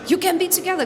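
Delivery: amused, encouraging echo; laughing repeat. Shown as a demonstration. Teacher repeats student's phrase, laughing. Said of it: "Yes, uh-huh".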